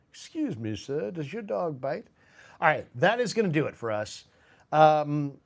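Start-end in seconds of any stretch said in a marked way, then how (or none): 0.1-2.1 comic film impression rising high; Peter Sellers. Fan reprising the Pink Panther dog question, high comic impression. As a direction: begin politely at normal pitch, then lift it high. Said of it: "epic, Peter Sellers".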